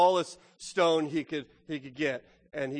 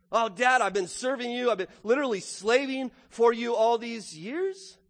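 higher, aggrieved complaint to a father; mock grievance; 4 semitones higher than usual. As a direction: play the put-upon son, stretching it into disbelief. Older brother's acted grievance to father.

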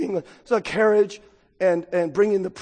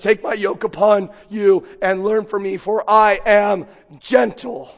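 impassioned plea; 6 dB louder than usual. Acted. Preaching Jesus's invitation.

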